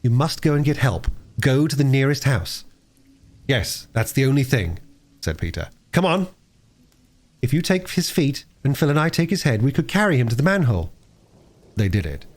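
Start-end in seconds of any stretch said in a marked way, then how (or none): 0.0-10.9 lightly voiced children, pitched higher; children organizing help. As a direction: take charge in brisk child voices.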